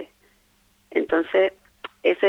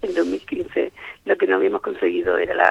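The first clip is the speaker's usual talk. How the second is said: strained hoarse voice giving out. Real, not acted. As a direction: voice almost gone, hoarse. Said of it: "estoy afónica".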